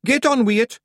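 high, loud Scottish shout. A narrator's reading. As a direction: cut him off with an urgent high yell. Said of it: "shouted Rob Anybody".

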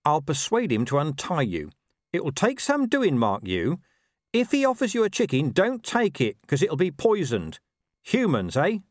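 high-pitched talking dog giving crafty advice; Gaspode, conspiring. Acted. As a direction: warn him off like a sly mutt. Dog advises the wolf.

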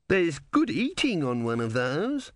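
slow, relishing, a hint of hunger; slow, greedy aside; coarse philosopher. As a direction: savour the thought of dinner. Coarse philosopher eyes the tortoise.

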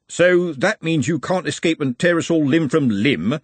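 lightly voiced anxious Bledlow; Bledlow working it out.

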